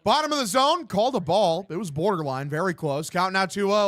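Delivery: live baseball commentary; punchy sportscaster delivery; play-by-play. Acted. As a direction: call the pitch like a radio announcer.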